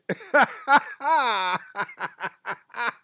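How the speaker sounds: loud, high cackling laugh; loud burst of laughter. Real, not acted. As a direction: let a big laugh explode out. Chat comment cracks him up.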